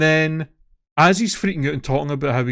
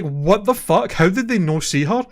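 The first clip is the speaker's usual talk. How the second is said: higher-pitched, incredulous retelling; shocked disbelief; 5 semitones higher than usual. Retold or imitated. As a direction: relive your outraged disbelief at the video. Recalls own shocked reaction to video.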